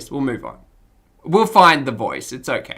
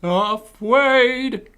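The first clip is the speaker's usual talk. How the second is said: Elmer Fudd-style speech; 8 semitones higher than usual. Acted. Trying out a character who can't pronounce R's, cartoon lisping. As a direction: turn R's into W's, cartoonishly. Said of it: "can't pronounce R's".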